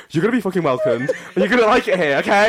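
quick, playful bullying welcome; mock-aggressive welcome. Co-host jokes about greeting new students, mock-aggressive welcome. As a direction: order them to feel welcome, rising at the end. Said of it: "go up to them and be like".

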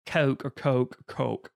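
COKE said three ways, vowel changing each time; variant pronunciations of Coke. Shown as a demonstration. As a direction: run through Coke with different vowels. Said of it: "How you pronounce".

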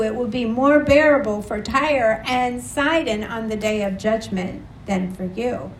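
measured, solemn Bible reading to the congregation; scripture reading. Acted. Preacher reading Matthew to the congregation, solemn. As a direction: read the passage with weight, building on the woes.

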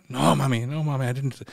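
lightly voiced child's denial; pleading child. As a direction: protest like a kid caught out. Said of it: "it's me as a child".

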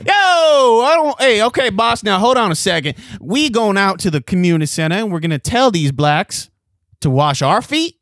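high, loud flustered officer; panicky cop. Acted. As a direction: stammer in alarm at the order. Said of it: "we're at a precinct".

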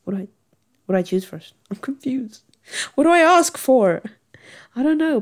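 imitating own rising customer panic; mock panic. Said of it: "I'm like".

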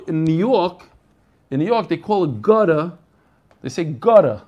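gutter with no R, "gutta"; old-school New York pronunciation; New York accent. Shown as a demonstration. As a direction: drop the R at the end like a New Yorker. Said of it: "They don't even say the R".

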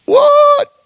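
very high, loud squeak of disbelief; shocked what. Acted. Preacher voicing Jeremiah's shock at racing horses, high yelp.

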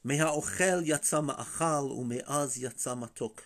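lightly intoned riddle verse; measured reading of an old Hebrew verse; poetic recitation. Retold or imitated. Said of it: "he always has phenomenal, um, poetry".

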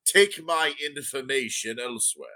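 put-on a prim old gnome merchant, unhurried. GM voicing the gnome.

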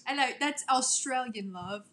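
mock British correction; playful fake British, dropping away at the end; British accent. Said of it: "Let us hear your British accent".

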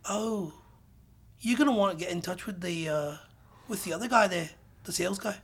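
lightly imitated, hesitant polite British man; British accent. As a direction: mimic a British developer tactfully deflecting. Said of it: "British accent".

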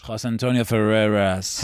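slow title call of a name; mock announcer call. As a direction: announce the full name like an English show intro. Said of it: "Especial Elecciones Estados Unidos with".

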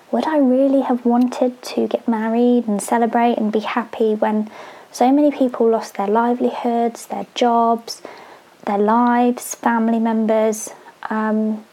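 out of breath while talking; short of air between phrases; heavy breathing. Real, not acted. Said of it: "because I keep getting out of breath".

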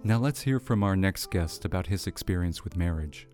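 measured presenter read over music; radio host read. Acted. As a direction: read it like a radio segment intro. Host reads segment over music.

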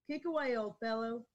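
measured storytelling read of a historical account; reading aloud. A narrator's reading. Reader retelling Boone's last words to the hosts, reading aloud. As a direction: read it out like a frontier legend. Rereads the hanging account after stumbling.

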